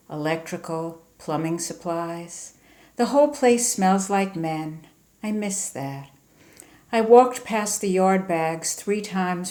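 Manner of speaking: measured, restrained poem recital; poetry reading. Acted. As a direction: read it line by line, pausing between images. Reads own poem aloud.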